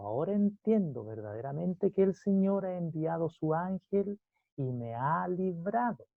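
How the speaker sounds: slow, deliberate Bible reading; measured pulpit reading; scripture reading. Acted. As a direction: read the verse out solemnly, drawing out key words. Reads scripture aloud to congregation.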